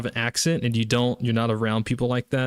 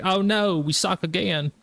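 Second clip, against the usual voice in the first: higher-pitched mock lament; mock dismay; 7 semitones higher than usual. Fans reacting to Saban retiring, mock dismay. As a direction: wail it lightly as a let-down fan. Everybody's reaction to losing, acted.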